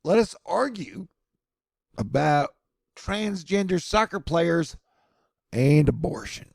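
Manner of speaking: lightly voiced know-it-all public; mild mock eager voice; mocking Americans. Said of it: "People in America were like".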